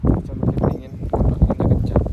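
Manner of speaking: shouting over wind. Real, not acted. Narrating in strong wind.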